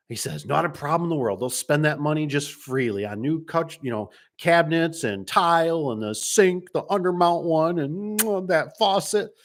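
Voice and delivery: high, gushing retelling of happy spenders; light mock delight at the dream kitchen; gushing about the kitchen. Friend imitating customers thrilled by a kitchen remodel, high and gushing.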